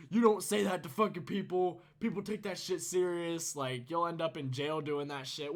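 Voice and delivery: mild telling-off. Retold or imitated. Friend's dad going off on Nathan, retold with mild anger. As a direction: lay into him a little, imitating an angry dad. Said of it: "going the fuck off on Nathan".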